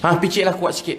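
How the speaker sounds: lightly voiced gruff dad giving an order; mock stern father. Father tells son to massage harder, mildly stern. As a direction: imitate a curt father's command. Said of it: "Dia bapak saya macam tu garang".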